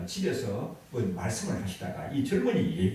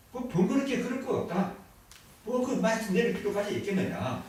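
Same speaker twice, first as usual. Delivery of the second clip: 훨씬 높은 목소리로 어르신 말 흉내; 만류하는 노재상을 높게 흉내내기; 10 semitones higher than usual. Retold or imitated. Friend imitates elder statesman. (훨씬 높게 흉내낸 어르신 말투)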